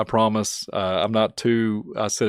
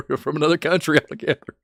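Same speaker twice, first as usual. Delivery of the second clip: doubting stranger; 4 semitones higher than usual. Retold or imitated. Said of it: "people are like".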